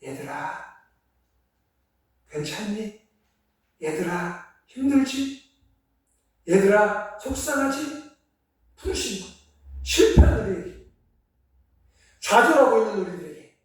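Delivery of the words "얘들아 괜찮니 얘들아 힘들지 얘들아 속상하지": tender comforting. Acted. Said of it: "그리고 지금 부르세요".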